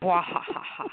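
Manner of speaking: bwah-ha-ha villain cackle; evil laugh. Pretend. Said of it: "That's my evil laugh".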